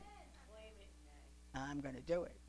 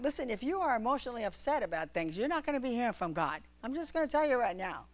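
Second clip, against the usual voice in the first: fervent exhortation; 6 semitones higher than usual. Real, not acted. Preacher exhorting the congregation, fervent. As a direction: urge them hard, no softening.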